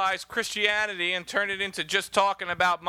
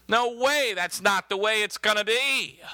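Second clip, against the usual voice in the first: mild rebuke. Acted. Preacher voices Peter objecting to Jesus' plan, mild rebuke. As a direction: object firmly, as if refusing to allow it. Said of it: "began to rebuke him".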